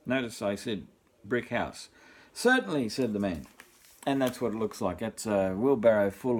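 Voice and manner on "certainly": cheerful man. Acted. Man answers the pig.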